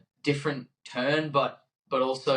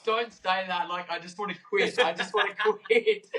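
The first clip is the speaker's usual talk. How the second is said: exhausted whine; 8 semitones higher than usual. Retold or imitated. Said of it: "I was like".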